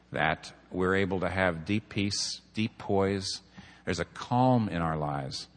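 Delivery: low, measured prayer. Real, not acted. Preacher leads congregation in closing prayer, low and measured.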